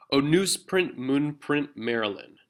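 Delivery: choppy, halting reading with a heavy final mark; teacher contrasting abrupt poem rhythm. Shown as a demonstration. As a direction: break the rhythm, then drop it off on mark. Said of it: "it's much more abrupt there".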